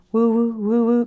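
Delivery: mixer whirring, mimicked by voice; imitated mixer whir. Mixer left on in the empty kitchen, imitated whirring. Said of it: "only thing that I could hear in the kitchen was the mixer".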